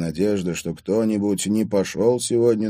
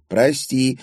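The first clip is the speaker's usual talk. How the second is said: small, higher-pitched sorry; squeaked apology; 6 semitones higher, 3 dB louder than usual. A narrator's reading. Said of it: "пискнула". (виновато пискнув)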